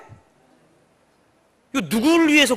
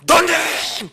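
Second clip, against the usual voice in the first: loud, higher cry; inner voice calling; 8 semitones higher, 4 dB louder, much slower than usual. Retold or imitated. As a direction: echo the voice from within. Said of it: "그러는데요".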